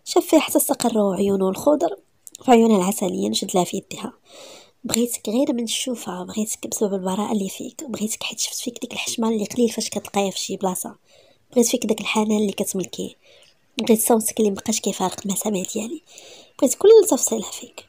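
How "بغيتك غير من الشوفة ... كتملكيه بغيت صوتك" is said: soft breathy love confession; whispered heartfelt confession; tender whisper. Acted. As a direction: murmur it close and gently.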